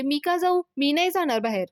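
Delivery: acted defiant objection from a wife; indignant refusal. Wife refusing order to leave.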